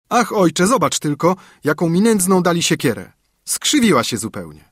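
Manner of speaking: a son grumbling about a useless axe; complaining son.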